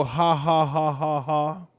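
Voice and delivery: drawn-out spoken ha-ha-ha; imitated laughter. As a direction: mimic an audience laughing. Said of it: "making people go".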